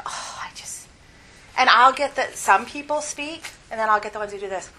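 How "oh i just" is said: breathy exasperated whisper under the breath; whispered thought. Retold or imitated. Teacher voicing her private frustration, whispered. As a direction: hiss the thought out almost silently.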